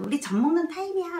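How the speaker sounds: cheerful mother. Retold or imitated. Mother announcing feeding time.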